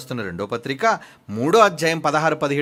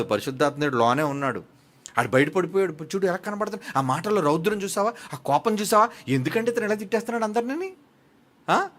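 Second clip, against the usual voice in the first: normal talking voice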